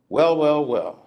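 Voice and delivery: lightly voiced older Southern woman, a touch stirred up; Dora. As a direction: read as a hint of an elderly church lady from Mississippi. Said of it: "Dora says".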